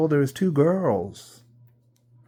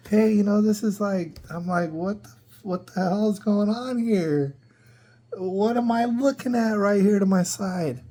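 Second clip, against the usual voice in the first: higher, pitched-up disbelief; exasperated outburst; 5 semitones higher than usual. Retold or imitated. To the child's parents, a higher, exasperated call. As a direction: let the pitch climb in shock.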